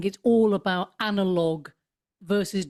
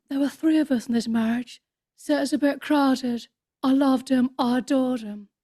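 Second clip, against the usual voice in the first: high, airy, breathy put-on voice; 5 semitones higher than usual. Demonstrating the voice the speaker does for Lady Diana: high breathy Lady Diana voice. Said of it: "let me just do her voice ... quite high up ... very sort of breathy".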